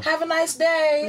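a touch of chirpy courtesy; mock-polite neighbor. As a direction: play the helpful neighbor handing over a parcel. Acts out returning a neighbor's package.

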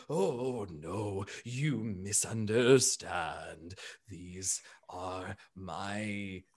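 low, soft, slow elephant voice, eager to please; a big gentle creature placating someone. Acted. Elephant Bertrand soothing the alarmed Invicta, low soft and slow.

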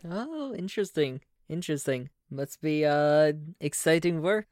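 the GM's neighbour slipping into German; German accent. Acted. GM voices the neighbour, in a mild German accent. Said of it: "I don't know why I went German".

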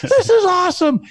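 excited Southern rep. Retold or imitated. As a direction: play the overjoyed phone guy from the South. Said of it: "he was so genuinely excited".

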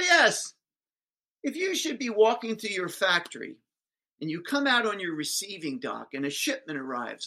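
spring the trap with relish; pointed teacher. Retold or imitated. Teacher springing her question on the businessman, eager and loud.

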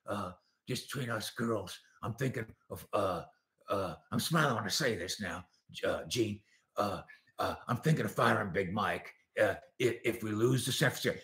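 low, hushed, hesitant murmur; Jerry's confiding pillow talk. Acted. Jerry to Gene in bed about firing his coach, confiding. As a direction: confide haltingly, soft and low, full of uhs. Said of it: "And Jerry says".

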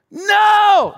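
high, loud mock refusal; joking loud no. Preacher joking about refusing his guide, loud. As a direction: bark out a defiant no as a joke. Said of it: "I just said".

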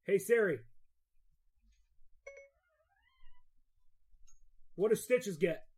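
tipsy slurred request; words blurred by drink. Real, not acted. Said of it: "Sorry, I'm drinking".

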